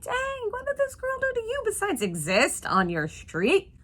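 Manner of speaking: high mocking schoolgirl taunt; sassy bully voice. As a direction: taunt her like a mean kid.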